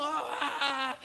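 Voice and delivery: high mock wail; hammed-up crying; imitated child's yelling. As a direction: bawl like a little boy making a scene. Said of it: "E ele gritando".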